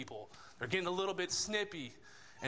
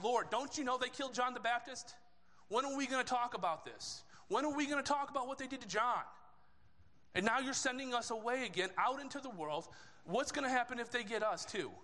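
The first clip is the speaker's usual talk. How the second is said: higher-pitched, upset protest, acted out; getting mad; 6 semitones higher than usual. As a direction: plead the disciples' grievance with mounting indignation. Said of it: "they're getting mad".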